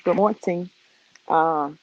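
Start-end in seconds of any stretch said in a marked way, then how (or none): 0.0-0.7 "morning" said as morn-ting; hard T inside "morning"; deal's catchphrase pronunciation. Retold or imitated. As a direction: quote a friend's "morning" with an added T. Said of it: "That's what deal would say".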